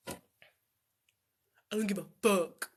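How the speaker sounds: unvoiced whisper punchline. Real, not acted. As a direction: whisper it cheekily.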